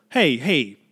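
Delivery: affronted heckle rising high; indignant onlooker. Acted. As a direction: challenge the photographer like a baffled critic. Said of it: "People were obviously like".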